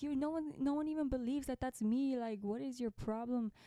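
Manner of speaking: high, huffy mock rant; mock exasperated rant. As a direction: play the fed-up victim. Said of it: "but I was so mad".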